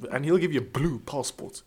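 lightly blustering politician voice; a hint of posh British politician; playful political impression; Boris Johnson. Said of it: "You said that so Borisy".

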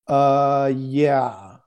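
drawn-out, unsure imitated yes; hesitant agreement. Stranger answering a request to pray for him, hesitant. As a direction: mimic a wary stranger slowly giving in.

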